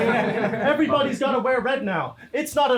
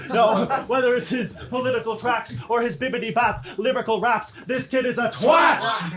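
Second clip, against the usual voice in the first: passionate yell. Acted. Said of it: "Say it again".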